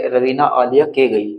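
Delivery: slow, word by word, with the gap left in; slow demo of a sentence missing a word; slow wrong reading. Shown as a demonstration. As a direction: read the broken sentence aloud to show it makes no sense. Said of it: "अगर हम इसको ऐसे पढ़ेंगे".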